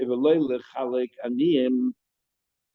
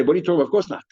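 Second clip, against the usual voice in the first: lively, higher-pitched scoffing retort; incredulous dismissal; 3 semitones higher, 4 dB louder, much faster than usual. Acted. Teacher spells out the doubting yes, incredulous dismissal. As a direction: brush off an absurd question, emphatically. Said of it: "as if to say".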